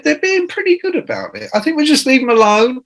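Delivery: very high, matter-of-fact woman's voice; hammed-up high producer shrugging it off; fiery Irish producer. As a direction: brush it off, pitched right up. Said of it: "fiery Irish woman".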